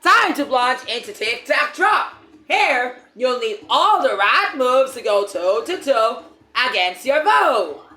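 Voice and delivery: booming announcer voice; game announcer read. Acted. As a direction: read it like a game show host. Reads game narration aloud.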